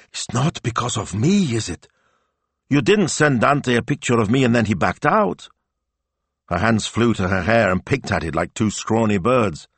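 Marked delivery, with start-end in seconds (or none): 0.1-5.5 high, worried questioning; gasping dismay. A narrator's reading. Assistant fears her photo scared off the actor, dismayed. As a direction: ask as dread dawns. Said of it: "her face went white and she gasped".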